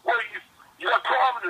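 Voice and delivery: high-pitched mock challenge, imitating a friend; confrontational. Friend confronting the angry dad, high mock challenge. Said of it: "he's like".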